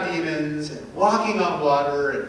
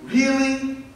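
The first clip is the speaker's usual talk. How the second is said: doubtful asking; 4 semitones higher than usual. Retold or imitated. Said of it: "it can make us ask".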